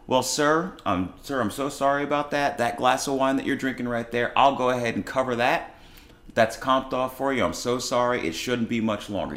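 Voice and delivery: smooth things over like a nervous server; placating service voice. Retold or imitated. Owner placating angry customer.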